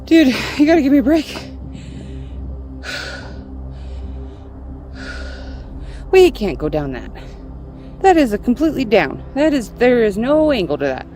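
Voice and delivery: exasperated. Real, not acted. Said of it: "I'm arguing with a dog".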